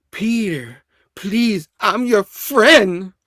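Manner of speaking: rising, drawn-out plea; hammed-up begging, stretching the last word; pleading. Norman begging Peter for his life, pleading.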